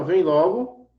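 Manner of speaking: loud, urging call to hurry; urgent command. Shown as a demonstration. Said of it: "No imperativo também". (chamado imperativo, alto e apressado)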